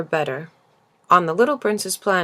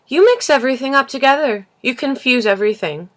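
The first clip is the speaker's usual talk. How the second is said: raised, louder, higher scolding; a child snapping in anger at a grown-up; angry outburst; 7 semitones higher, 6 dB louder than usual. Acted. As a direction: scold him, voice up high and loud. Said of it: "He was really very angry".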